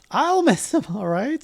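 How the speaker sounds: high-pitched mock outcry; high protest. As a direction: squeak it out in alarm. Voiced girl protests.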